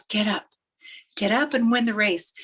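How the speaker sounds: restrained call of encouragement; mildly acted rallying words; urging dad. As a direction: urge him on without shouting. Dad's call, milder take.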